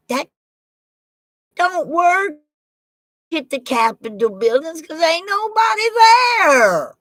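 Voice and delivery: high, loud indignant holler; fired-up rant at an empty capitol; ranting shout. Real, not acted. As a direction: shout it like a protest.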